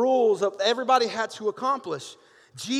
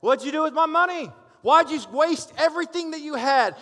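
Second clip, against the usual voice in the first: higher, louder, scolding questions; mock angry father; 7 semitones higher, 4 dB louder than usual. Pastor imagines scolding the prodigal son, mock angry. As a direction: play the fed-up dad demanding answers. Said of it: "I would probably be like".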